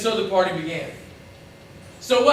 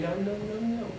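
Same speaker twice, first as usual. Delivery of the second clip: very soft, hushed repeated denial; gentle refusal; 12 dB quieter than usual. Acted. Jesus answering those who claim they earned it, hushed refusal. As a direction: drop right down and softly turn it aside.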